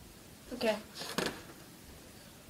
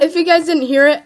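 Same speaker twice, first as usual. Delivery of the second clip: laughing; 4 semitones higher, 8 dB louder, faster than usual. Real, not acted. Still laughing at the app.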